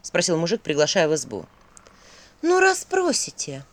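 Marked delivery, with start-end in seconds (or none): 2.4-3.6 sighing. A narrator's reading. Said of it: "вздохнула Василиса".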